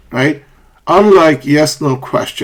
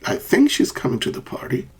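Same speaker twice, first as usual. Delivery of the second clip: softer, tentative, rising on "party"; uncertain fall-rise; 6 dB quieter than usual. Shown as a demonstration. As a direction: hedge on "think", lift the end of "party".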